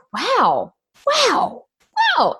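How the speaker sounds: high-pitched, repeated mock amazement; marvel, as if lost for words; amazed. Acting amazement at client's achievements.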